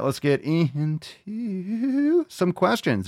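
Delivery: slow, high showman call; announcer. Acted. Host kicks off questions in a slow, high showman voice. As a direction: stretch it like a show intro. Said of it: "segment announcement".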